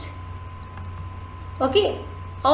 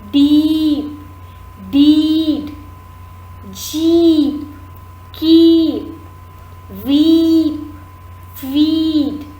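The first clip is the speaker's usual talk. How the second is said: louder, each long-vowel word called out clearly; reading aloud loudly; 2 semitones higher, much slower than usual. Shown as a demonstration. Teacher reads the word list loudly so students can follow. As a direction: drill each word out for the class. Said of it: "I'll read it out for you loudly".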